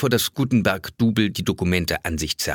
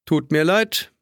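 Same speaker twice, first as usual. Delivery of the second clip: insincere sorry; 6 semitones higher, slower than usual. A narrator's reading. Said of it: "ohne es zu meinen".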